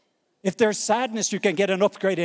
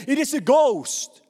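higher, louder cry of alarm; frightened disciples; 7 semitones higher, 3 dB louder, slower than usual. A narrator's reading. Disciples in the boat crying out at a ghost, alarmed. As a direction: let it ring out in fear. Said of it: "they were troubled, saying".

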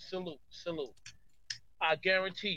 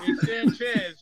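high loud call; 8 dB louder, slower than usual. Real, not acted. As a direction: shout the name high and loud. Second call much higher and louder.

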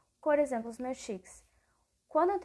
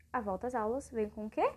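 ordinary delivery

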